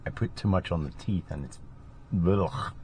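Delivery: slurring around gluey dentures; mouth full of denture glue. Real, not acted. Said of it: "I've got denture glue in my mouth".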